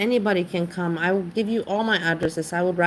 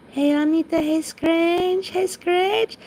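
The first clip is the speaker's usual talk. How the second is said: high, bright-eyed loud hellos; much higher, louder cheery hellos; excited greeting; 11 semitones higher, 4 dB louder, slower than usual. Real, not acted. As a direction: squeal a hello to each viewer. Greeting viewers in chat.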